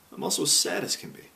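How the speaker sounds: low, breath-filled dejected voice; sad sigh. A narrator's reading. Man with head in hands, sighing sadly. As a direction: let it sink into a whispery sigh. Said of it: "put his head in his hands and sighed".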